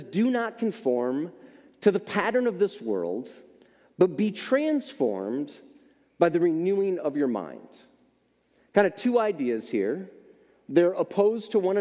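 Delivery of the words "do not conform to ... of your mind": reading the verse slowly with weight; slow solemn verse reading; slow, weighty scripture reading. Shown as a demonstration. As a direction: let each phrase land slowly. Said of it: "I'll put it on the screen".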